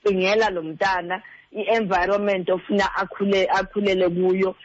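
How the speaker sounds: ordinary talk, nothing marked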